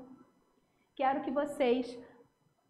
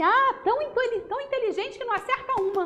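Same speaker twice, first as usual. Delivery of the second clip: higher, louder sarcastic dig; sarcastic dig at a classmate; sarcastic remark; 6 semitones higher, 3 dB louder than usual. Shown as a demonstration. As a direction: drip with irony. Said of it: "você tá sendo irônico".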